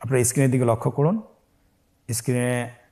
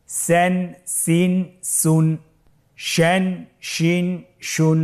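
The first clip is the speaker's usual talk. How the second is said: recitation drill; 5 semitones higher, much slower than usual. Shown as a demonstration. Leads learners in repetition.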